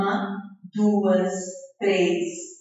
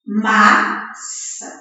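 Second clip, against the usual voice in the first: "Maçã" in two detached syllables; 3 semitones lower than usual. Shown as a demonstration. Teacher showing children the syllables, "Maçã" broken in two. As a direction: pause between the halves of "Maçã". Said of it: "ou então com os dedinhos".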